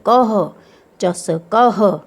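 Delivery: कह with the "ah" ending voiced out; slow चस कह, sounding the final ह; demonstrating pronunciation. Shown as a demonstration. Teacher shows children the अह sound, deliberate pronunciation of चस कह. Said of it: "अह पढ़ेंगे उसे".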